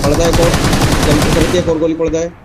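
cover me shout. Real, not acted. Urging teammate to finish enemy.

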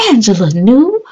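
usual speaking voice

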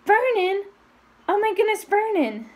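as if about to faint, calling her husband; a wife's shocked cry to her husband; panicked cry. A narrator's reading. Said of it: "made a choking noise".

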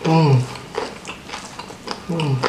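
humming while biting food; muffled through a mouthful; mouth full of chicken. Real, not acted.

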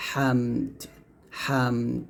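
হামদ softly with the দ sounded; clear final d. Shown as a demonstration. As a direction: end হামদ on a crisp দ. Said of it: "এই দালটা এখানে উচ্চারণ আসবে". (হামদ-এর দ স্পষ্ট করে)

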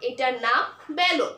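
slow, spelled-out answer বেলন for the class; teacher's slow model answer; slow clear repeat. Shown as a demonstration. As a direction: say এটার নাম বেলন slowly so children can repeat. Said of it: "আবার বলো".

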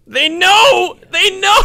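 high-pitched frustrated outburst, building to a yell; aggravated. Real, not acted. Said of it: "It's so aggravating".

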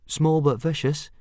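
high, eager little interjection; helpful. A narrator's reading. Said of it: "added Fishlegs helpfully".

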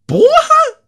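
high cartoon voice startled; high squeaky character voice. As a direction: jolt awake in a squeaky panic. Voices game character waking him.

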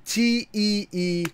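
slow, corrected spelling of T E E; slow careful spelling. Shown as a demonstration. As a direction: spell T E E slowly and deliberately. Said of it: "I added one extra E".

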